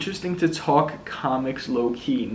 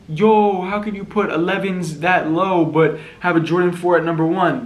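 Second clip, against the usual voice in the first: mock outraged fan; 3 semitones higher than usual. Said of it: "people were, like, actually pissed".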